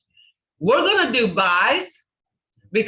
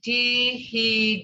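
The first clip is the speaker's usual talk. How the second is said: broken into sounds. Shown as a demonstration. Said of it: "See, they're all sounds".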